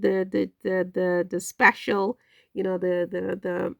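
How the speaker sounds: stuck repeating the word; stammer, searching for the word; stuttering. Real, not acted. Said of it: "I'm stuttering".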